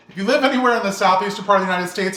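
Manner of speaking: words through leftover laughter; laughing while talking. Real, not acted. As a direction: talk fast, still laughing. Still laughing after toothpick joke.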